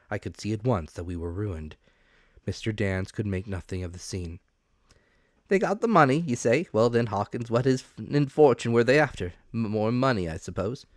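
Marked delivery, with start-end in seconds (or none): 5.5-10.9 higher and louder, a bustling, eager supervisor; excitable officer voice. A narrator's reading. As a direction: play the keen revenue officer, pitched up. Mister Dance voiced in story.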